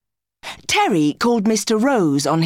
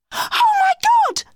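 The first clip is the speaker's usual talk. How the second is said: high startled exclamation; shocked cry. A narrator's reading. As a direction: gasp it out in sudden alarm. Emma jumps up alarmed.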